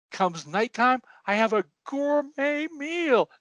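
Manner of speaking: high, mock-weepy old man; crying old man. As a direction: keep the hammed-up high sob going. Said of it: "And he's still crying".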